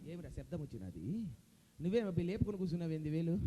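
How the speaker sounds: low, puzzled grumble; Jayaprakash Reddy impression. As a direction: question it suspiciously under your breath. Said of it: "Jayaprakash Reddy గారు".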